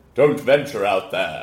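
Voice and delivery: deep regal voice. Asked by another speaker to repeat the line, the speaker does the Mufasa voice. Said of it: "you're good at voices, the deep voices".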